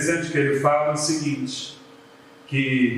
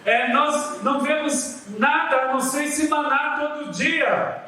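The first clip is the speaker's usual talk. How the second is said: lightly voiced complaint, pitched higher; mock whining; 8 semitones higher than usual. People grumbling about manna every day, mild mock whine. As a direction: sulk about the same old food. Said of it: "o drama".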